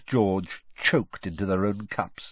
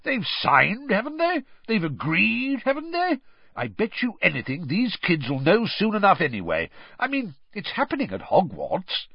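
very high, excitable voice; eager Bagman; 11 semitones higher than usual. Acted. Bagman pushing Crouch to reveal the secret, eagerly. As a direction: argue excitedly, tags leaping high.

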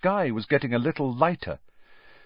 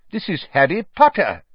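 Fudge voice; 8 semitones higher, 7 dB louder than usual. Acted.

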